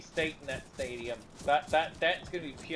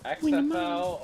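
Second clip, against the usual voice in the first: excited shout; 11 semitones higher, 6 dB louder, slower than usual. Real, not acted. Sudden excited outburst.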